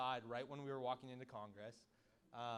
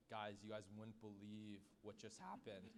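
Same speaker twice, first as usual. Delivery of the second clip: much softer, lower imitation of a friend confiding; hushed retelling; 6 semitones lower, 10 dB quieter than usual. Groom tells friends at the bar, hushed and low. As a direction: drop low and quiet, as if breaking news.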